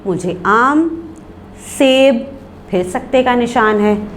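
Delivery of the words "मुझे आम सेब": "मुझे आम" rising, a clear gap, then "सेब" on its own; pauses between items. Shown as a demonstration. Teacher demonstrating the comma gap, pauses between items. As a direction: set आम and सेब apart with a silence. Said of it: "यानी मैं ठहर गई".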